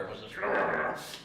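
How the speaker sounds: drawn-out rolled growl; growling animal noise; imitated growl. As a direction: trail into a cat's growl. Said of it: "he was growling and shit".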